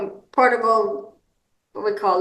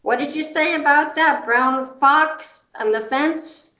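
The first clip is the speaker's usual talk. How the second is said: specific rephrase question; 4 semitones higher than usual. Shown as a demonstration. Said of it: "try to tone in on".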